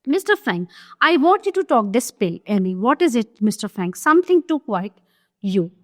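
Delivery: slow, deliberate reading of a stage script; slow classroom reading of a play; play read aloud. Acted. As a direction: read each line out slowly for the class. Reads the pill exchange.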